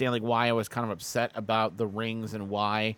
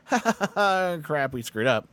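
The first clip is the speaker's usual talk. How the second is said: mock laugh; 4 semitones higher, 3 dB louder than usual. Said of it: "like, a".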